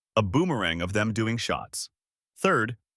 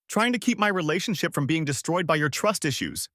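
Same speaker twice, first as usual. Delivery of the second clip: yelling; 5 semitones higher than usual. Acted. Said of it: "she yelled".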